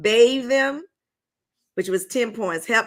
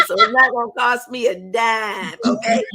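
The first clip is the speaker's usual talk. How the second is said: half-cry, half-laugh joke; laughing protest; 2 semitones higher, 4 dB louder than usual. Real, not acted. Game host telling pastors there's no prize money, laughing loudly.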